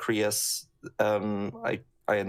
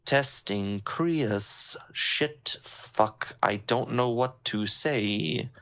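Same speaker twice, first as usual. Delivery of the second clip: Krios line read; much slower than usual. Shown as a demonstration. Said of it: "I might just be like".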